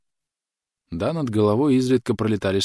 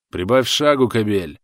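loud; 3 semitones higher, 6 dB louder than usual. A narrator's reading. Soldier urges comrade.

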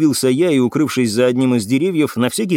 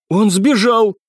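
higher-pitched, eager protest; heated exclamation; 8 semitones higher, slower than usual. A narrator's reading. Cadet denies they killed him, heated. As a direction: insist on it hotly. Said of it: "горячо воскликнул курсант".

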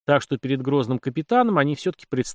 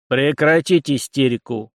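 slow, louder order with metal in it; steely command; 2 semitones higher, 5 dB louder, slower than usual. A narrator's reading. Captain stopping a youth's hysterics, steely. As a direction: put steel in it and shut down the panic. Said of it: "подпустил металл в голос Зимин".

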